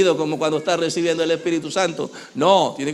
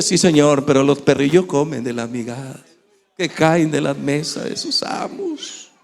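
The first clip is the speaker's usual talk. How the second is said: humble pleading woman; 2 semitones lower than usual. Acted. Canaanite woman pleads with Jesus.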